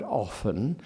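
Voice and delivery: OFTEN said as "offen"; silent T. Shown as a demonstration. Lecturer shows Eliot's class-marked often, T left silent. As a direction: drop the T from often. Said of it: "did not have a T in it".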